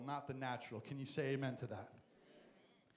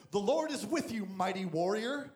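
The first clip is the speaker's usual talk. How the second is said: booming angel; 3 semitones higher, 7 dB louder than usual. Acted. Angel greets Gideon.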